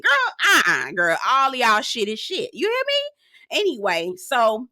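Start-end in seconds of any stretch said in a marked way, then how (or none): 2.5-3.6 high and slow, stretched out; drawn-out emphasis. Real, not acted. Host scolding the cast, high and drawn out. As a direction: lean in like a sassy auntie.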